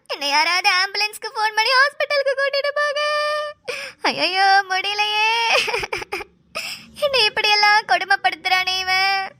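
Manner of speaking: hammed-up crying plea for an ambulance; fake wailing. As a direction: fake sobbing, theatrical cries of suffering. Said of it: "எதுக்கு கத்துற".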